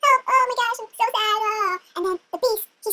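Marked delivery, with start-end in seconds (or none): 0.0-1.8 mock weepy lament; badly faked crying; crying more. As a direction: whimper out hammed-up grief. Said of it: "starts to cry even more".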